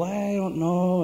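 slow, drawn-out modest reply; imitated humility. Mando answers praise of his producing, mock-humble. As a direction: drag it out like a bashful, humble man. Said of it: "he was real humble".

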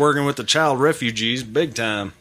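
put-on second go at a Southern accent; an amateur Southern accent on a political quote. Podcaster retrying the quote for co-hosts, Southern accent. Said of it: "but it was better".

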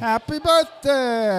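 slow, loud birthday cheer; cheerful cheer. Real, not acted. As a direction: sing it out warmly to the team.

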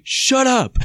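sharp loud yell, pitched high; mock angry shout of shut up; pointed shout. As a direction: snap it out in irritation. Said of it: "He was so pointed".

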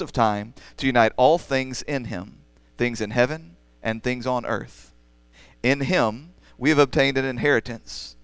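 measured, formal public reading of scripture. Acted. Pastor reading Ephesians to the church, formal reading voice. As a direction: read the passage aloud to the congregation.

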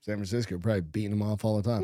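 talking through hiccups; words broken by hiccups. Real, not acted. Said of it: "Got the hiccups".

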